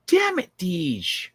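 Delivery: slow drawn-out lament; mock lament. Calling after Deej who left the stream, slow mock lament. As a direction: stretch it out like a mock sad call. Repeats call, pretend lament.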